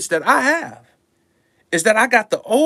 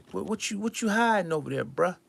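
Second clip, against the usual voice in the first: hushed suspicious quote; 5 dB quieter than usual. Shown as a demonstration. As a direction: mutter it like you're onto them.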